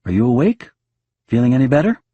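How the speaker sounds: husband calling to his sick wife. Acted. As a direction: call toward the bedroom, hoping. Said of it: "I call".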